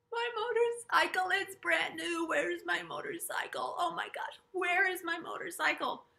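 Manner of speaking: high, loud, frantic wailing; panicked crying. Retold or imitated. Crash victim crying to the EMT about her bike, frantic and loud. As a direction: wail for the lost bike in a panic. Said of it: "I was crying and crying and crying".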